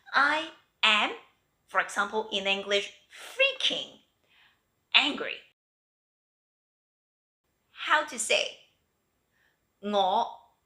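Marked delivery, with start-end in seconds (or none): 3.1-5.4 freaking jumps high, angry follows plain; stress on freaking. Shown as a demonstration. Teacher stresses freaking to show strong anger, high and punchy. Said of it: "If you want to stress the meaning".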